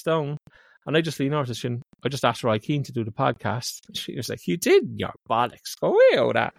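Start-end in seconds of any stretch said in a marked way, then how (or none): 4.5-6.5 retold disbelief. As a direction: play a colleague refusing to believe it. Acting out colleague's disbelief.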